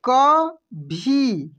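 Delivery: कभी stretched very slowly, syllable by syllable; drawn out. Shown as a demonstration. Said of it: "कैसे पढ़ेंगे हम लोग?". (कभी को धीरे धीरे बोलिए)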